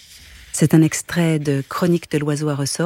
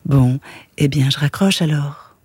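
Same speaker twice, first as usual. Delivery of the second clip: syrupy; 3 semitones lower, 4 dB louder than usual. Acted. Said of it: "dit la voix d'une voix sirupeuse".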